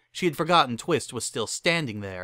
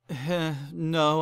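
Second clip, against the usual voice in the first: Caesar voice; 5 semitones higher than usual. Acted.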